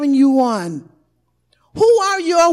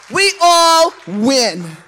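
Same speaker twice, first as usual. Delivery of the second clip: slow emphatic repeat; 5 dB louder, slower than usual. Real, not acted. Preacher repeats climax.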